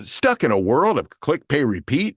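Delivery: slightly comical promo read; light TV promo, no doom and gloom; playful announcer lilt, rising on "repeat"; a little brighter. Shown as a demonstration. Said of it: "this is a little brighter".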